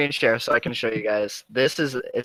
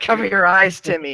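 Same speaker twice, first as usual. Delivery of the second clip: mock-alarmed parent, pitched up; 4 semitones higher than usual. Parent tells Timmy to cover his eyes, mock alarm. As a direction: play a scandalized parent. Acted parent shielding child from performer.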